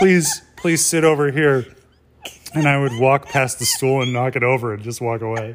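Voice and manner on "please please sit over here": loud, high-pitched calling out. Retelling an imagined Big Brother eviction: imitating Julie Chen. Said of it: "Julie Chen would be like".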